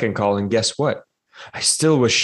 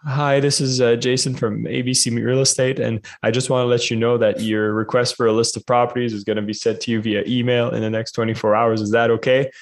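cold call voice; 3 semitones higher than usual. Retold or imitated. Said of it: "And I'm like".

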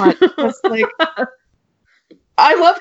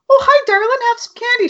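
high, sing-song sweet voice; sugary greeting; 12 semitones higher than usual. Retold or imitated. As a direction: coo at the child like a sweet neighbour. Greeting trick-or-treater sweetly.

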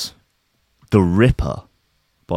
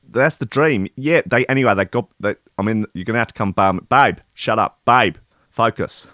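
schmoozy hollywood agent; faster than usual. Pretend. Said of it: "imagine having to phone your wife about that".

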